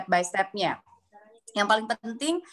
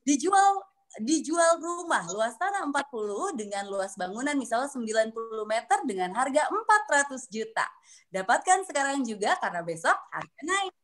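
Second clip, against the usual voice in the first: voiced ad reading. Shown as a demonstration. Coach shows how to practise intonation on a house ad, voiced expressively. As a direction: sell it aloud with rising and falling intonation. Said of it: "bisa dibaca dengan disuarakan".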